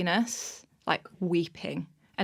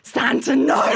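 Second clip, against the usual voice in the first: firm no; 5 semitones higher, 9 dB louder, slower than usual. Retold or imitated. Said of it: "And I just went".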